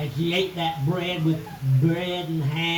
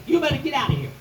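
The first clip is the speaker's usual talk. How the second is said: giant's wife warning; 6 semitones higher, 4 dB louder, much faster than usual. Acted. Giant's wife warns Jackie off.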